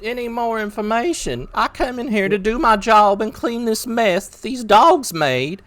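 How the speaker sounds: 1 indignant protest. Acted. Character protests to city guard.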